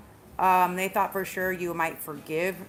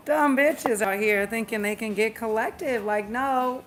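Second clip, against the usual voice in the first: sassy scoff; 3 semitones higher, 4 dB louder than usual. Acted. Sassy rant about collective.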